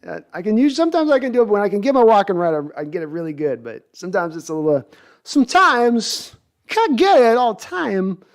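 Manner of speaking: lightly done Walken; Christopher Walken impression. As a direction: lurch through the words like Walken. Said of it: "very good".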